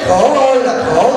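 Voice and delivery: slow mock-wailing "khổ ơi là khổ", drawn out on "ơi"; sarcastic lament. Monk teasing the wife about her easy life, slow mock lament. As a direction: drag out "Khổ ơi là khổ" like a fake moan. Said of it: "sarcastic refrain repeated".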